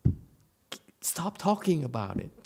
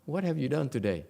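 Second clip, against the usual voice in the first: calling out; 2 semitones higher, 3 dB louder than usual. Retold or imitated. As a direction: call out to get attention. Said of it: "They look at you and say".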